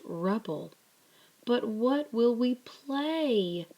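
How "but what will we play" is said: high, slow, mournful wail; a lost boy wailing. A narrator's reading. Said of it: "wailed Digger".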